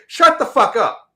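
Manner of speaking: high, slow "shut the fuck up"; drawn-out angry snap; angry rant. Retold or imitated. Ranting at phone talkers, slow angry snap. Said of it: "ranting at phone talker".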